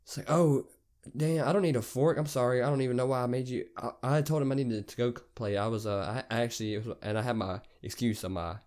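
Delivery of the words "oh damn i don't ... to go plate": higher, louder feigned surprise; put-on apologetic realization; playing it off. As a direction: make a hasty polite excuse. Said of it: "I play it off".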